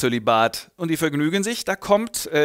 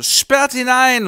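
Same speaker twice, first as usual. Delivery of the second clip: loud, much higher, slow command; drawn-out shout; 10 semitones higher, 8 dB louder, much slower than usual. Retold or imitated. Heinrich ordering the crowd to lock Simon up, loud and slow. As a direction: stretch the order out as a bellow. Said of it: "er so".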